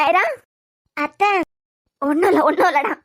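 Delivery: gentle grandmotherly calming; soothing reassurance. Acted. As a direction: comfort a crying baby. Grandmother comforts crying baby.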